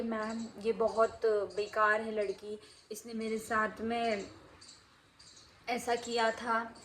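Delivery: slow, tearful complaint retold lightly; imitating a crying girl. Girl complaining to the teacher, mildly tearful and slow. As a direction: drag the words like a hurt child about to cry. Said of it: "लड़की रोने लगी and बोलने लगी".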